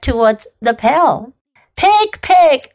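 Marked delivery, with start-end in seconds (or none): 1.8-2.7 higher, coaxing call; kind farmer voice. A narrator's reading. Farmer lures the little pig along, kindly. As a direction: call kindly to a pet animal. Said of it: "in a kind voice".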